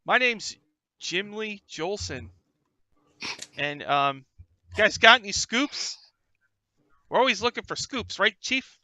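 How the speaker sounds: put-on high, loud eager young reporter; high excited young reporter voice. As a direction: sell it like a keen cub reporter. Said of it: "the red-haired guy says".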